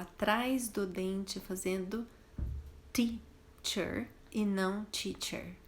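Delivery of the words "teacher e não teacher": "teacher" with tongue behind the teeth, then a wrong T; right and wrong T. Shown as a demonstration. Teacher contrasting the T sound in teacher. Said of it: "prestando bastante atenção na pronúncia desse primeiro T".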